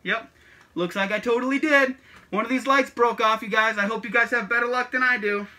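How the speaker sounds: muffled behind a mask; through a plague doctor mask. Real, not acted. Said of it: "if you can't hear me, uh, behind this mask".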